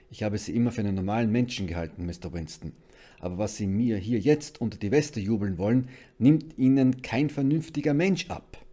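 loud, exasperated constable; forceful, incredulous rebuke; indignant disbelief. A narrator's reading. Constable rejects the unbelievable story.

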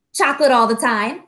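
a quick, firm chocolate all the time; a touch of childish insistence; emphatic reply. Acted. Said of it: "John replied emphatically".

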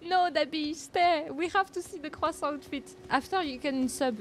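high, urgent plea; playful pleading. Real, not acted. Streamer begs viewer to stay for outfit, high playful pleading. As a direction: beg them to stay, pitched high.

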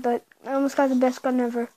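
talking while chewing gum; words around a wad of gum. Real, not acted. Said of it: "I'm chewing gum right now".

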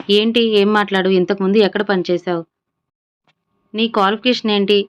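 insistent demand. Acted. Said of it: "అని ఆమె రెట్టించింది సుధ".

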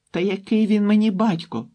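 sobbing. A narrator's reading. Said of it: "схлипнула дівчина".

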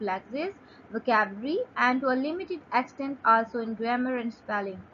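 slow, careful reading of a definition; slow dictation reading. Shown as a demonstration. Teacher reading a definition aloud to students, slow and careful. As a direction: read it out slowly for students to follow.

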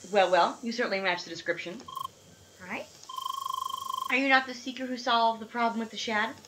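lightly voiced lady scientist; matter-of-fact scientist. Scientist lady greeting the seeker, matter-of-fact. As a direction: state it like a brisk researcher. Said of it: "matter of fact scientist lady".

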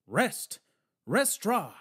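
loud, punchy shouted command. A narrator's reading. Old man ordering a policeman to stay put, shouting. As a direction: bellow the French words at him. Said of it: "Garland shouted at the policeman".

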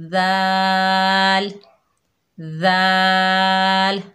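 दाल very slow, thin, lips spread; long, fine दाल; दाल stretched with spread lips; thin dal. Shown as a demonstration. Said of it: "बहुत नरमी से, प्यार से पढ़ना है".

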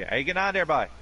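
high Newfoundland lilt; cheerful Newfoundland greeting; Newfoundland accent. Retold or imitated. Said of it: "With Newfoundland, it'd be".

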